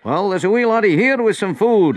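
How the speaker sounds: high, loud, jolly exclamation; amused. A narrator's reading. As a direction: say it as if tickled by the sight. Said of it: "laughed Andrew".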